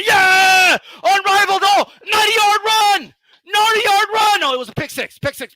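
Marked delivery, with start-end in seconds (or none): 0.1-4.4 high, loud hammed-up cheering; mock stadium cheer, higher and louder; mock celebration. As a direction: play the rival fans whooping over a fake score. Mocking opponents celebrating a touchdown.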